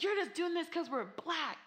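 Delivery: mock indignant mother. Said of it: "then she's like".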